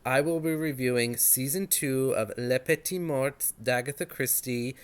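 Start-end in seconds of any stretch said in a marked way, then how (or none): 2.4-4.8 lightly attempted French accent; terrible French accent. Shown as a demonstration. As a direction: say the title in an amateurish French accent. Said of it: "my terrible French accent".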